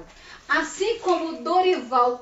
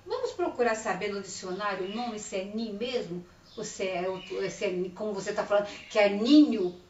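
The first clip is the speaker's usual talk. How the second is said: gentle encouraging suggestion; 4 semitones lower, 4 dB quieter than usual. Shown as a demonstration. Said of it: "você fala assim".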